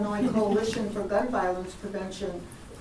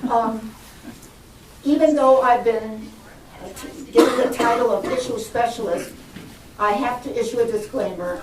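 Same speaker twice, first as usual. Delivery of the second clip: louder, projecting classroom voice; teacher voice; 5 dB louder than usual. Real, not acted. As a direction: project to the back row. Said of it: "I have to use my teacher voice".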